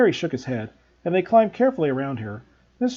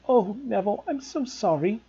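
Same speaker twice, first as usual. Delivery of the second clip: miserable; 6 semitones higher than usual. A narrator's reading. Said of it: "said Hermione miserably".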